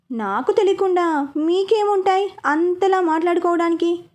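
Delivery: mildly angry retort, demanding; lightly annoyed daughter suspicious of her family. Acted. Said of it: "అంది స్నేహ కోపంగా చూస్తూ".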